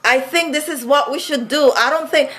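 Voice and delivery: high-pitched, animated Vincentian accent; fluent Vincy accent. Shown as a demonstration. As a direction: let the Vincy accent pour out. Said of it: "you know, Vincy".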